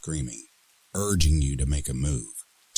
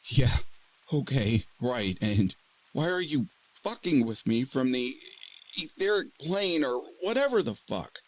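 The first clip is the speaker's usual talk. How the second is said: incredulous; 13 semitones higher than usual. Acted. Incredulous woman.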